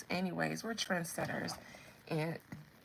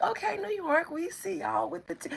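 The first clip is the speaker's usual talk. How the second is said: high, playful greeting; friendly acknowledgement; 10 semitones higher than usual. Acted. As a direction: start an upbeat, placating shout-out. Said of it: "We be like".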